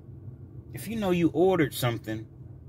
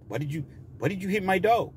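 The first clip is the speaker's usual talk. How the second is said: higher mock Mexican-accented complaint; put-on Mexican accent; 5 semitones higher, 4 dB quieter than usual. Owner confronting driver, exaggerated Mexican accent. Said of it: "he didn't talk like that".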